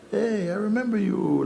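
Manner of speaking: high-pitched delighted call of recognition; imitating an eager European; excited recognition. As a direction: mimic a tourist thrilled to spot an old face. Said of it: "like this".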